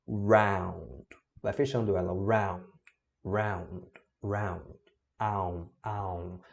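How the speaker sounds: "round" and "aum" drawn as a closing "au" circle; pronunciation drill. Shown as a demonstration. Teacher drilling students on the "au" of "round". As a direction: close the mouth in a circle on "round". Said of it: "faz esse movimento com a boca".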